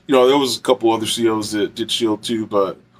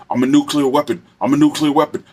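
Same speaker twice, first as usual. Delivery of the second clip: frantic declaring; 3 semitones higher than usual. Retold or imitated. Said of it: "He was going like this".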